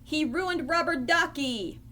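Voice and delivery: high-pitched, mildly aggrieved complaint; upset cry. Acted. Ernie complains to Bert about the kitten, upset. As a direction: complain with a touch of outrage. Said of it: "cried Ernie".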